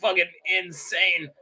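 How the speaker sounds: lightly voiced stammering cartoon grandpa; hint of a drunk grandpa, halting between phrases; Rick. Plays Rick commenting on the race.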